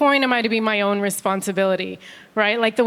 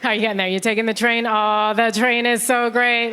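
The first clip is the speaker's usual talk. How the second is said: bored Londoner. Retold or imitated. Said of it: "Every time".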